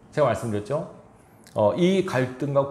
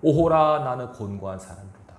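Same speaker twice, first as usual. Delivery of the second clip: a cry of despair fading away; anguished lament. Retold or imitated. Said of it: "바울이 고민하잖아요". (오호라를 크게 외치고 뒤는 한숨처럼 작게)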